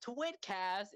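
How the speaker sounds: hammed-up trailer voice with dramatic pauses; game trailer announcer. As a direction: announce a big crossover reveal, very drawn out. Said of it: "like, the trailers, like, in Smash".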